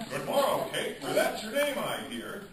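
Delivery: high, loud, gawky schoolboy Shakespeare; gawky teen boy. Retold or imitated. Imitating the gawky boy onstage, high and loud. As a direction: ham it up like a nervous fourteen-year-old.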